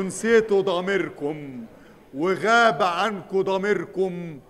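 dramatic preacher. Acted. Dramatic slow sermon climax.

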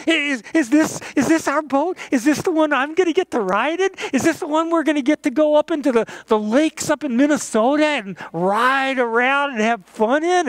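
put-on high, eager child's voice racing along; a thrilled kid asking her parents, quick and high; excited little girl. Little girl asking her parents about the boat, excited and high. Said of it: "she was so excited".

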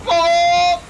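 loud high "oh!"; surprised shout. Real, not acted. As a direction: shout in shock. Shot misses.

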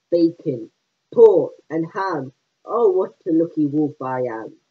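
loud, gleeful wolf shout. Acted. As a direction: bellow it like a greedy wolf. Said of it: "He shouted".

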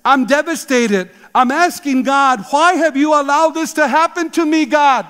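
quoting a caller's anguished question to Dr Dobson, mildly pleading; imitating anguished plea. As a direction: voice a desperate young woman, lightly played. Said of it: "this anguished question".

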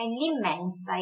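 "l'immensa" as one single word; run together. Shown as a demonstration. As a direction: glide the article straight into "l'immensa". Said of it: "parece uma palavra só".

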